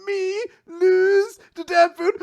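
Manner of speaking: hammed-up, slow, high and loud; incredulous villain. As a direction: draw it out in loud mock disbelief. It's just him being like.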